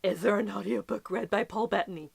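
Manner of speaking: hushed, unvoiced whisper of longing; conspiratorial whisper; whispered wish. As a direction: breathe the question like a secret wish. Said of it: "I was like".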